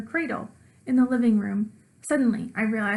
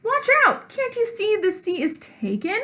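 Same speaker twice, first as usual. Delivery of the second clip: alarmed shout; 10 semitones higher than usual. Acted. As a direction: yell to stop him in time. Child stops dad sitting down.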